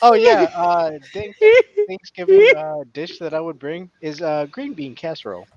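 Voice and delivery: mock unenthused guest, lightly voiced; bored guest. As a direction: parody a dull side-dish answer. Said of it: "I'm gonna be very disappointed if it's like".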